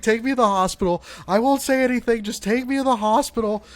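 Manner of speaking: loud, high-pitched hysterical begging, hammed up; mock tearful plea. Retelling how they begged friends for a hospital, mock-hysterical. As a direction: imitate a panicked kid pleading, high and loud. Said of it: "And I start crying".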